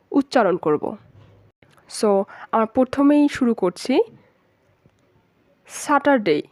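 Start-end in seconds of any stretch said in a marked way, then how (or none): 5.7-6.4 Saturday as "স্যাটারডে" with a sounded r and short ending; common mispronunciation. Shown as a demonstration. Teacher showing learners the usual Saturday, everyday mispronunciation. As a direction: say "স্যাটারডে" the everyday Bangla way, r pronounced. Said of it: "আমরা normally এটাকে স্যাটারডে বলি".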